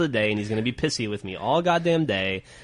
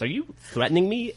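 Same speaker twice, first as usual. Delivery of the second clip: higher, incredulous question; 8 semitones higher, 3 dB quieter than usual. Retold or imitated. Mom quoting her disbelief at the child, higher and incredulous. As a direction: raise it up in disbelief. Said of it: "And Griffin goes".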